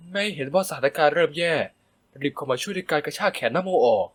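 ordinary delivery

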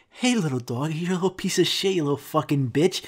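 mock-affectionate talk to a dog; pet-owner lilt over rude words; sweet dog-talk. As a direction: coo insults as if they were praise. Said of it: "about the tone of your voice".

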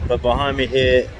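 windy outdoor recording; wind on mic. Real, not acted. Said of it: "so excuse the wind noise".

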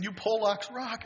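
high, slow, thrilled shout of praise. Retold or imitated. Bill cheering his new Polish friend's muscle car, thrilled. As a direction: savour each word with glee. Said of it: "I said".

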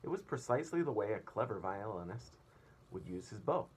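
put-on reading aloud to children; lively read-aloud for a class; storyteller voice for kids; story narration. A narrator's reading. Teacher reads story aloud.

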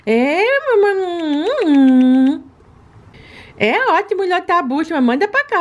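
high, sweet little pet voice begging for treats; baby-voiced pet. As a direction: talk like a greedy cute puppy asking mommy. Owner voices her pet.

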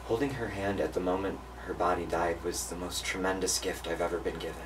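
soft, subdued reflection; solemn storytelling. Real, not acted. Grandchild reflects on being there at her death, soft and solemn. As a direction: say it quietly, as a tribute.

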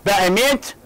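mildly astonished, with a questioning rise; a touch of surprise, lifting at the end; astonishment. Shown as a demonstration. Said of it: "باستغراب يعني. كلها".

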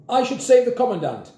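high, loud heroic declaration; resolute officer. A narrator's reading. Grandpa as Miss Swine is trapped, resolute declaration. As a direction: declare it with old-soldier resolve.

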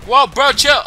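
loud high bro voice; frat bro. Acted. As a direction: shout it like a hyped frat bro. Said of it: "echoing the voice line, loud".

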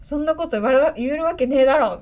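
hammed-up frustrated boy telling him off; mild mock outburst from the flustered boy; mock angry retort. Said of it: "怒られて".

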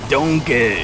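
lightly voiced ogre calling out; Shrek impression. Gamer quoting the movie to teammates, hint of Shrek. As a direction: draw it out in mock Scottish. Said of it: "Remember, though, when he said".

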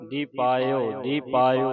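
ਦੀਪਾਇਓ as one unbroken word; no gap inside ਦੀਪਾਇਓ; joined-up word. Shown as a demonstration. Teacher showing how to read it, ਦੀਪਾਇਓ run together. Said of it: "ਇਹ ਇਕੱਠਾ ਹੀ ਹੈ".

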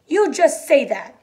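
sharply dismissive, leaning on each word. A narrator's reading. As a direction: snap it as a scolding, words drawn out. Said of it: "she said sharply".

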